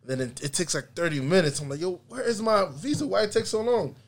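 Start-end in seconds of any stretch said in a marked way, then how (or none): 1.8-4.0 mild retold frustration. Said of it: "so I'm getting mad".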